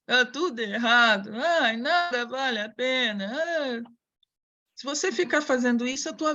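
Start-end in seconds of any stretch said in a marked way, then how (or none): 0.0-3.9 a lightly voiced gloomy cartoon sad sack; gloomy Uruca lament. Teacher mimics the gloomy Uruca moaning about bad luck, mock despair. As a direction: drag out "ó azar" like a hopeless sigh of doom. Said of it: "igual aquele Uruca".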